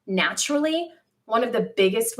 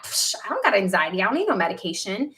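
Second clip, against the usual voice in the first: retold dismissive denial; 2 semitones lower, faster than usual. Mimics own dismissive denial to doctors.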